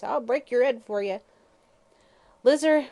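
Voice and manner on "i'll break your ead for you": much higher, louder hag's shriek; old woman shrieks after her granddaughter; shrieking threat. Acted. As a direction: scream it after the fleeing girl. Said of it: "she shrieked with a volley of oaths".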